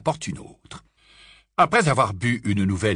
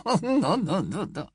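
laughing; 8 semitones higher than usual. Acted. Muriel laughing tic.

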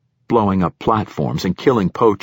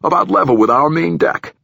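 official giving his account to a superior, a bit pushed; nervous platform director; 4 semitones higher, 4 dB louder than usual. Acted. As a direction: voice an uneasy director justifying himself.

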